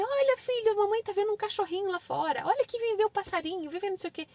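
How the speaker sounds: high-pitched coaxing parent voice; excited mother pointing things out; calling the child over. Shown as a demonstration. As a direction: draw a toddler's attention away. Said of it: "Chama ele".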